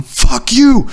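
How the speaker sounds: very high yelled retort; high, strained mock yell; imitated distant yelling. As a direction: holler it down a long aisle. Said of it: "the other end of the aisle yelling".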